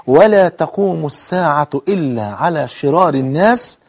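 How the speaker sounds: slow, measured recitation; drawn-out formal Arabic, each clause set apart; careful hadith recitation. Shown as a demonstration. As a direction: recite phrase by phrase with long pauses. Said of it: "خد بالك، ركز في الحديث".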